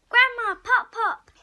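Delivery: loud delighted greeting; happy call. Acted. Kid greets Grandma and Pop Pop, calling out happily. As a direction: call out to them, overjoyed.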